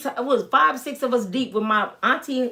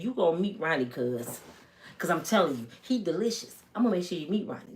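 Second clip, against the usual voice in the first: hushed promise; 6 semitones lower, 8 dB quieter, faster than usual. Retold or imitated. Teller promising her cousin.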